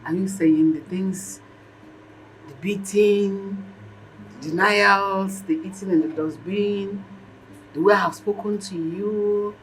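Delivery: slow, drawn-out listing; incredulous, lingering on each item; disbelieving recital. Acted. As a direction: count off each wrong slowly, with pauses. Mother slowly lists her past wrongs.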